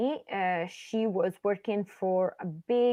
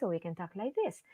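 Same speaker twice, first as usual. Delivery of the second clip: soft voice; 2 semitones lower, 7 dB quieter, faster than usual. Shown as a demonstration. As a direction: pull the volume right down to show.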